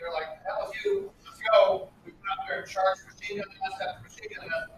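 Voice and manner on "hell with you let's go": high, loud, mock-defiant Marines; defiant shout. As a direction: throw it back at the general, loud and cocky. Marines defy British general.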